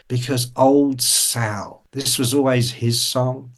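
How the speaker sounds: a hint of an old lady, drawn out; lightly voiced old lady. Old lady explains her song, lightly voiced and wistful. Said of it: "she's, like, ninety-three or something".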